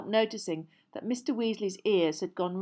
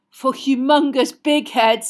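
teasing; 6 semitones higher, 13 dB louder, slower than usual. A narrator's reading. Fred teasing.

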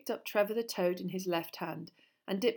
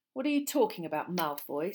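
rough challenge. Acted. Ron challenges Malfoy, roughly. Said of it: "said Ron roughly".

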